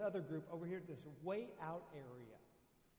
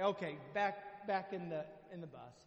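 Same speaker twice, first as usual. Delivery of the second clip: fuming order; 4 dB louder than usual. Retold or imitated. Fuming leader orders group back.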